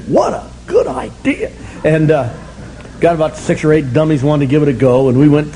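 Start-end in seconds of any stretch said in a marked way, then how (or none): 0.1-1.5 mock enthusiasm. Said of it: "I said".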